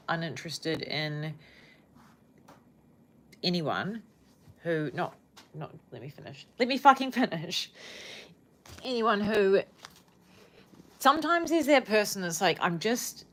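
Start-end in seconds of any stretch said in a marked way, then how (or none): none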